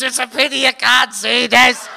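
imitating laughing referee. Laughing referee to blind ringside spectators, mock amusement. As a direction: talk as if struggling not to laugh. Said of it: "he's laughing so much".

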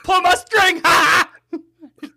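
high, loud squeaky Pee Wee voice; shrill pull string toy yelps; Pee Wee Herman. Acted. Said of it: "That was good".

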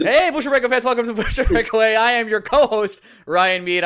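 an energetic podcast host welcoming fans; host intro redo. Shown as a demonstration. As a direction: pump up the show opener. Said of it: "let's redo it".

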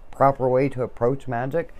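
proper way to approach magic? lifted into a questioning rise; a mock listener asking in disbelief; mock incredulous question. Host voicing a doubtful listener, rising incredulous tone. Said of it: "you're probably thinking".

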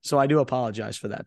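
hoarse, shot voice; raspy like a heavy smoker; smoker's rasp. Real, not acted. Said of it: "By the way, my voice is shot".

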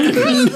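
high, urgent closed-mouth noise; mouth-full humming. Retold or imitated. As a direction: imitate desperate assent with a full mouth.

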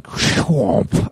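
imitated crunching whomp; crash sound effect. Driver retelling the parking-lot sideswipe, crash noise. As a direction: make the sideswipe noise with your mouth.

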